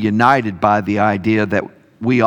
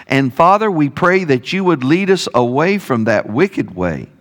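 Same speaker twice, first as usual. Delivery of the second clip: prayer; 2 semitones higher than usual. Acted. Closing prayer.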